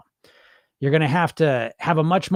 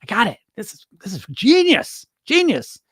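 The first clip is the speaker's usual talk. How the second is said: mock smug dieter; 2 semitones higher than usual. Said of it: "on paper, it's like".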